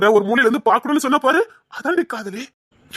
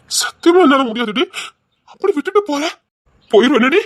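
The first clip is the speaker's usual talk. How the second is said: anguished outburst; 3 semitones higher than usual. Acted. Husband anguished she would leave.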